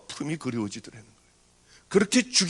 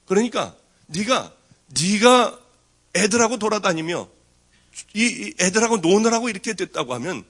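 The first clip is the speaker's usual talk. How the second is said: louder, pressing plea; urgent pleading; 3 semitones higher, 5 dB louder than usual. Retold or imitated. Pastor urgently persuading the crying girl, louder. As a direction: push hard to convince her.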